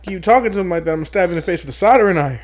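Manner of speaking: quick, mock-threatening movie quote; corrected film-quote tone. Correcting a friend's movie quote, mock threat. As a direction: rattle off the threat as a film impression. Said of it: "That's the wrong tone".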